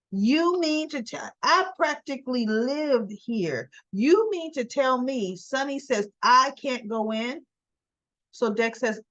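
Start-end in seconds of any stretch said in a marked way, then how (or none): 0.1-7.4 higher, slowed, outraged disbelief; hammed-up indignant Nina, pitched up; mock outrage at being shut out; indignant demand. Nina indignant, refused entry.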